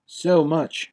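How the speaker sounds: high-pitched, mild sigh of resignation; sighing prince. A narrator's reading. Zorn to the Golux on lost treasure, sighing. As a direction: give up hope with an understated sigh. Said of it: "sighed Zorn".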